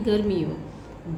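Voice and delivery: गर्मियों said slowly and softly, short इ; teacher slowly models गर्मियों with short इ; slow correct form. Shown as a demonstration. Teacher to class, slowly modelling the short vowel. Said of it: "छोटी की मात्रा आएगी".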